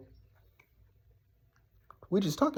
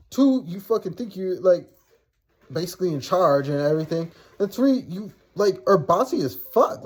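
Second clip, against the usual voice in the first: higher, emphatic point-by-point dressing-down; retold telling-off; 4 semitones higher than usual. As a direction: retell laying into him, counting off grievances. Retold telling-off of sister's boyfriend.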